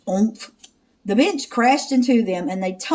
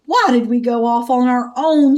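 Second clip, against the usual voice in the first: mock sob; 5 dB louder than usual. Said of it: "Shaggy sobbed".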